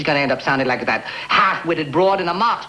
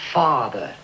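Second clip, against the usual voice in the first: "father" dropped down low; falling inflection; 3 semitones lower than usual. Shown as a demonstration. Coach points out the dropped word, falling inflection. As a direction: let "father" fall away, half thrown away. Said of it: "notice how I drop down on the word".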